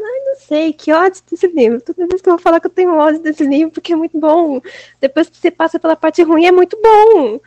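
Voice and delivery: loud, high, exasperated gushing; excited rant. Real, not acted. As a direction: rave about it, half furious. Gushing rant about beloved book.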